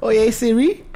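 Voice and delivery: put-on lightly Spanish-accented call to a phone assistant. Man showing off his old Spanish-speaking phone assistant, Spanish accent. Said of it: "I had a Spanish joint".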